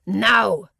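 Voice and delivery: one burst to launch into the air; shouted. A narrator's reading. Ishka urging her to take off, shouting. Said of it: "Ishka shouted".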